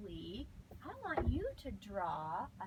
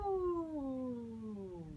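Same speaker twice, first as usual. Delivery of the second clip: coiling vocal glide. Shown as a demonstration. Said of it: "our sound shape is".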